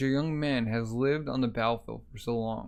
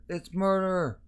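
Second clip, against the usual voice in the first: high-pitched acted cry of alarm; 7 semitones higher, slower than usual. Bystander raising the alarm over a killing, alarmed. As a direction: cry it out high, stretching the word. Crying out murder in story.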